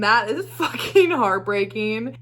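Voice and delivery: slow, with a broken laugh; laughing through heartbreak. Real, not acted. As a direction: laugh so you won't cry.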